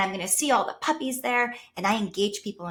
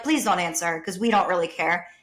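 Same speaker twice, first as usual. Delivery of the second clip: louder, dismissive brush-off; imitating New Yorkers who don't care; mock indifferent; 4 dB louder than usual. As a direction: wave it away carelessly. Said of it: "they're like".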